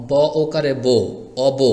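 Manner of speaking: teacher's spelling demo, "অব" ending in o; unwritten o-kar sounded. Shown as a demonstration. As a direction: say "অব" as "o-bo", ending on a round o. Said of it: "মনে মনে একটি ওকার ধরবেন".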